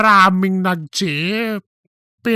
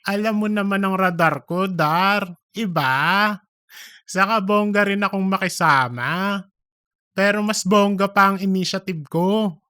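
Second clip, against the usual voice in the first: quick, pleased bragging; boastful Cheese; 3 semitones higher, faster than usual. Acted. Cheese bragging to Darren about her radar, quick and proud. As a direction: sell yourself, fast and proud.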